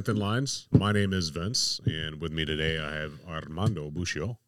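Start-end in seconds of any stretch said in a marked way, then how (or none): 3.3-4.4 "Armando Buccio" with a trilled R in Armando; rolled r. Real, not acted. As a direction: roll the R in "Armando Buccio" like Spanish. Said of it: "Like I rolled my R's on that one".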